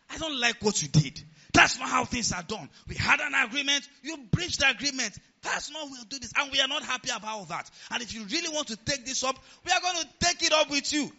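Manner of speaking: firm displeasure. Retold or imitated. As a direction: stand your ground and build to a shout. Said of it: "That's how I was talking".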